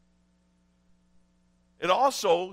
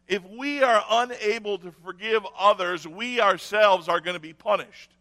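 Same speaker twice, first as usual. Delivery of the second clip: firm and louder the first time; preaching firmly; 5 dB louder than usual. Acted. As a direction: drive the warning home. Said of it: "repeated line".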